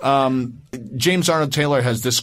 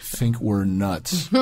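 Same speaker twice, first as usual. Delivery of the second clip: drawn-out agreement; 5 semitones lower, 4 dB quieter, much slower than usual. Real, not acted. Joking echo of the neighbors remark.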